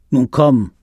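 laut und gereizt nachgespielt; aggressiv. Retold or imitated. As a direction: den Kollegen gereizt anfahren. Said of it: "total aggressiv auf einmal". (Kollege fährt Jens in der Kantine laut an)

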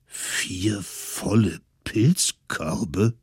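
put-on slow, astonished elderly voice; slow astonished old voice; amazed old folks. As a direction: marvel slowly like old villagers. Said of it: "staunten sie".

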